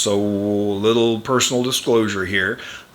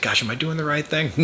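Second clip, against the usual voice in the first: higher, mildly fretful self-questioning; mock worried; 6 semitones higher, 3 dB quieter than usual. Worried person questioning their own decision, lightly imitated fretting. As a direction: imitate someone doubting their own choice. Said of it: "worried if they're making the right decision".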